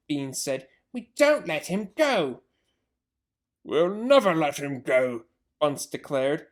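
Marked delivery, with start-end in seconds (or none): 0.9-5.3 stubborn vow. Acted. Farmers vowing.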